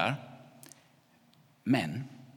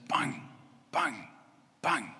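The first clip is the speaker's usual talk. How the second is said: imitated banging; 5 semitones higher, much slower than usual. A narrator's reading. Imitating banging heard outside.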